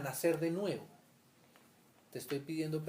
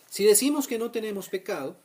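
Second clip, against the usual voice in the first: emphatic reading; 6 semitones higher, 10 dB louder than usual. Real, not acted.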